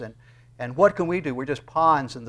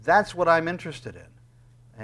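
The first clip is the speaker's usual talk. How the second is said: God's voice, raised and higher, with urgency; insist, like God refusing to throw anything out; God speaking; 4 semitones higher, 5 dB louder than usual. Retold or imitated. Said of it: "it's God saying".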